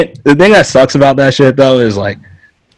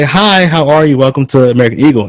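higher, proper customer-service greeting; polite store greeter; 4 semitones higher than usual. Retold or imitated. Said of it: "people say, 'Hi".

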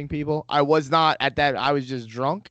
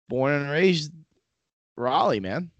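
put-on thick Southern accent; 3 semitones higher, slower than usual. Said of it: "really thick Southern accent like that".

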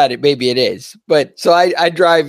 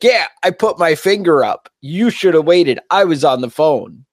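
higher, lightly mocking guard; whiny self-justifying sentry; imitating the guard; 4 semitones higher than usual. Guard excusing himself to the driver, higher mock whine. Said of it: "And he's like".

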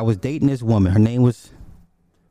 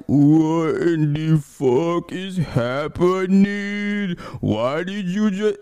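stunned disbelief; 5 semitones higher, much slower than usual. Retold or imitated. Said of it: "And I'm like".

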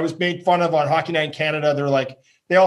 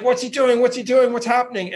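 puzzled crowd; 7 semitones higher than usual. Retold or imitated. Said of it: "Everyone's like".

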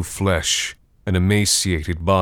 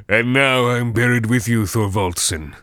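higher eerie gloating creature; gloating undead; 4 semitones higher than usual. A narrator's reading. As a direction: relish the curse. Draugr gloating.

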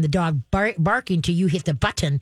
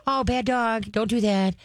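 weak scolding; 4 semitones higher than usual. Retold or imitated. Trainer mocks a timid owner's scolding. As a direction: scold too meekly. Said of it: "But if you go".

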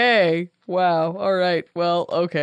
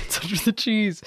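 mock Italian; 2 semitones higher, 5 dB quieter than usual. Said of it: "All the Italians will be like".

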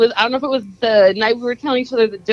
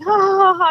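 higher-pitched mock ha-ha laugh; imitated laughter; 8 semitones higher than usual. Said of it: "They're like".

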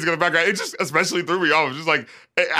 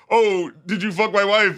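"did you fuck my wife" mocked, higher and hammed-up; mocking husband; 4 semitones higher than usual. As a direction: poke fun at the contrived question. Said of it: "it's such a contrived, awkward scene".

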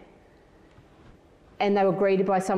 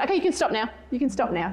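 higher-pitched retold plea to stop; cutting him off; 5 semitones higher, faster than usual. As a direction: call a halt, pitch raised. Acting her cutting son off.

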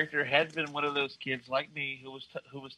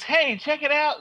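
mock Green Lantern; 13 semitones higher, 5 dB louder than usual. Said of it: "and goes".

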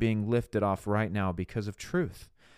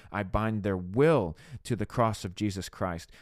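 flowing, insistent intercession; fervent prayer. Shown as a demonstration. Speaker binding a family member to the cross, fervent prayer. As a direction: pray with conviction, weighting the final declaration.

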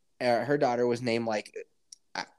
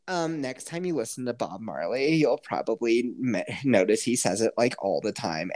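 mock friend; 4 semitones lower than usual. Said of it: "sounds exactly the same as her".

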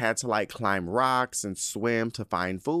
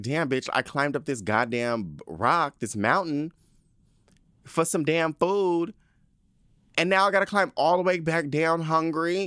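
indignant cub complaint; 6 semitones higher than usual. Acted. Voices the hungry cub's complaint.

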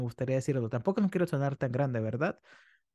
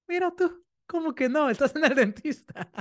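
much higher, louder mock outrage; indignant disbelief; 11 semitones higher, 4 dB louder than usual. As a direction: playfully scold the kid as if you can't believe it. Dentist reacts to child's refusal.

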